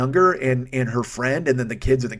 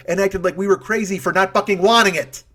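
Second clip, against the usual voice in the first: raised pitch, exasperated finish; indignant outburst; 5 semitones higher, 4 dB louder than usual. Real, not acted. Diner fed up at being treated as crazy, indignant outburst. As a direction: build to an incredulous complaint. Indignant climax of the nachos story.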